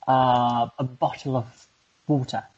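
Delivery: British accent, said in careful pieces; demonstrating British pronunciation, haltingly. Shown as a demonstration. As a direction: model a British accent phrase by phrase. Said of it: "challenge me back to speak in British accent".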